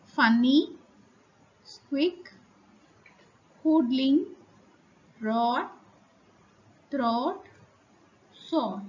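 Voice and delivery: each word alone, a pause after it, slight rise; dictation reading. Shown as a demonstration. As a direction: read out spelling words for the class to write down. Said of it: "I repeat".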